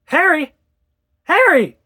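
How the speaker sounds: frantic high yell out of a window; shouted name. Acted. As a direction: call out like a madwoman. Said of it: "I opened the window and shouted".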